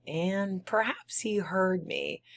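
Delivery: high breathless whisper. Acted. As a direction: whisper as if he might hear. Fear of being heard.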